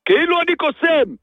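indignant, worked-up complaint; exasperated rant. Real, not acted. Seller complaining customers expect a magician, exasperated rant. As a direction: rant at the absurdity of it.

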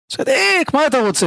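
high-pitched acted alarm, first word highest; alarmed protest. Man cornered by the question "are you righteous", alarmed protest.

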